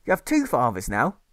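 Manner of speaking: a mother at her wits' end with her son; exasperated mother. Acted. Mother scolding Alfred.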